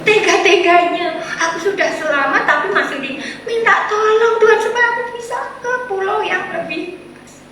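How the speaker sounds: high, loud, anguished shouting; castaway shouts at God after losing his shelter; angry shout at God. Acted. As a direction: cry out to God in bitter anger. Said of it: "Dengan marah dia berteriak".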